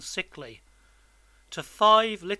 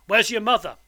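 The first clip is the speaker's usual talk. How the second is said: loud, raised, demanding question; menacing convict; 4 semitones higher, 7 dB louder than usual. A narrator's reading. Convict asks boy about his mother, menacing. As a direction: interrogate the child.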